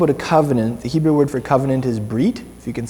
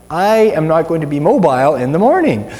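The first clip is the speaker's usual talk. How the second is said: slightly raised, louder mock declaration; emphatic self-quote; 2 semitones higher, 4 dB louder than usual. Preacher retelling his neck injury to the congregation, emphatic. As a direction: deliver it as a pronouncement of doom. Acts out dread after neck crank.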